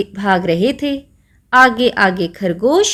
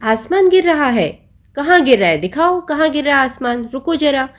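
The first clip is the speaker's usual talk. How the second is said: mock lion roar; 4 semitones higher, faster than usual. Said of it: "शेर ने दहाड़ा जोर से और बोला".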